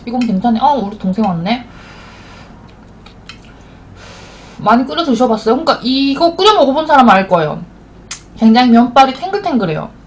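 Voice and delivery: chewing while talking; talking between slurps; mouth full of noodles. Real, not acted. Seen 1: Slurps noodles at 0.3-4.0 and chews with a full mouth after.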